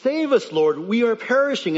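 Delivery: high, loud desperate call; cry for help. Acted. Disciples begging Lord in storm, desperate shout. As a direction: beg to be rescued. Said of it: "Matthew records".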